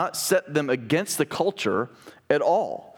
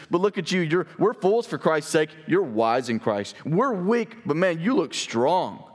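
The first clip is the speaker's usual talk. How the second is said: sarcastic; 3 semitones higher than usual. Retold or imitated. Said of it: "he's laying on the sarcasm here".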